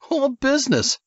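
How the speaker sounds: high, lazy surfer-dude voice; stoned surfer dude. Acted. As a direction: play the bloodshot California surfer. The speaker mocking Nichols.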